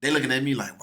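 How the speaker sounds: ordinary delivery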